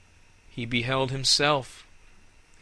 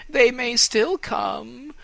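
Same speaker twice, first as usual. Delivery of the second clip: said again, louder and higher; louder hopeful insistence; 12 semitones higher, 6 dB louder, slower than usual. Acted. Repeated line, second louder.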